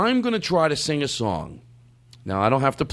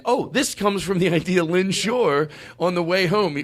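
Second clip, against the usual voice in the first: ordinary delivery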